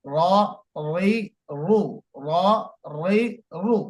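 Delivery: র রি রু said thick and full-mouthed, heavy r sound. Shown as a demonstration. Teacher showing a heavy, thick র. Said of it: "একটু মোটা করে".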